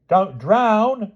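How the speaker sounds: put-on very high child's plea; a frantic boy's cry; boy screaming. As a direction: Agravain pleading with his mother. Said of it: "screamed Agravain".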